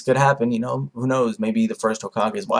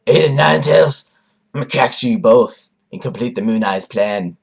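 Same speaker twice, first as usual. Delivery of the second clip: villain threat; 4 dB louder than usual. Retold or imitated.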